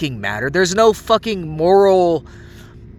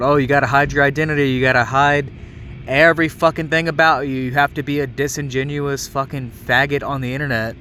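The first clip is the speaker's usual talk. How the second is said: rushed, sneering parody of his advice; mocking quote; 2 semitones lower, faster than usual. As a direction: rattle off his paranoid rules with contempt. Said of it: "he wants you to internalize all this fucking bullshit about".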